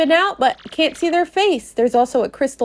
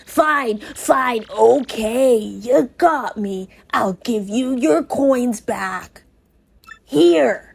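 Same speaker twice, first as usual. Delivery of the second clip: sly thief. Acted. Cloaked thief returns coins to Mario, lightly voiced sly grudging. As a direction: shrug it off like a caught thief.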